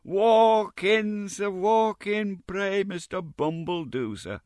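very high, slow, fawning greeting; effusive Mrs Mann. A narrator's reading. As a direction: gush at him in a shrill sing-song. Mrs Mann welcomes Bumble in.

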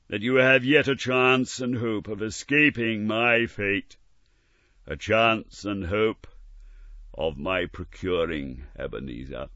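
solemn spectral warning; warning ghost. Acted. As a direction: urge him to take his chance. Ghost warns Scrooge.

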